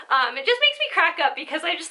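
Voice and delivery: quick whispered repeat. Real, not acted. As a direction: whisper it fast, like a secret.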